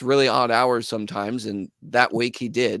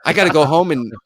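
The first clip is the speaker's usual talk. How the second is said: fast, tumbling panic; rushing to list every chore at once; imitating excited drummer; 3 semitones higher, 4 dB louder, much faster than usual. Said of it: "And he's like".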